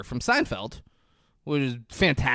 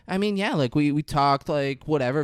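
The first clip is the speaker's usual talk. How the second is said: dismissive ex-wife. Retold or imitated. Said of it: "She's like".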